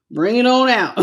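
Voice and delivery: repeated with a laugh. Shown as a demonstration. Repeating her own line to viewers, amused and laughing. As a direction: say it again, laughing.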